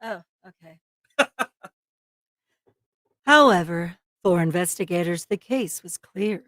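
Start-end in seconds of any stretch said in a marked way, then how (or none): 3.2-6.4 mock-sultry narration, pitched lower; sexy voice. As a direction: read it in a low seductive voice. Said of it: "not your sexy voice".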